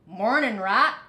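friendly mouse hello; cheerful mouse. Acted. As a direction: greet him like a chipper little mouse. Mouse greets Rat brightly.

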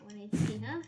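doubting scoff; dismissive scoff. Real, not acted. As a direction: brush it off with a scoff. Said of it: "You just, you just scoff at me?".

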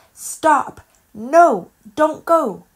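high, loud urgent cry; shouted warning. Acted. Squirrel warns Olive away from the rut, shouting. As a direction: yell to stop someone in danger.

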